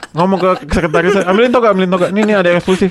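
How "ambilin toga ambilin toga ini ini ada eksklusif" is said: louder, hurried calls for the gown; hammed-up boss shouting for a gown; mock excited order. (menirukan dosen memanggil toga dengan semangat)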